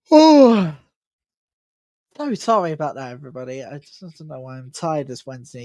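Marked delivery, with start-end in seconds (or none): 0.1-0.7 a big open yawn into the mic; loud yawn. Real, not acted. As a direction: let out a real tired yawn. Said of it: "so, so sorry again for the yawning".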